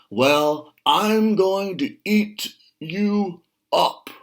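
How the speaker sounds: high, loud, slow roaring troll. A narrator's reading. Troll under the bridge threatening the goat: loud slow roar. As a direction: roar it out like a hungry troll guarding his bridge. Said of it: "roared the troll".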